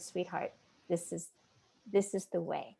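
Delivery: soft, low-key coaxing; retold tender guidance with pauses; gentle reassurance. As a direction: coax softly and kindly. Retold leader gently reassuring her.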